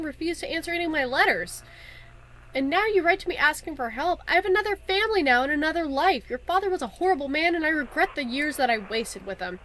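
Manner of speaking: lightly acted wounded mother, emphatic then subdued; estranged mother's letter. Karen writing to the daughter who left, lightly acted hurt. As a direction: read it as a hurt mother refusing her daughter.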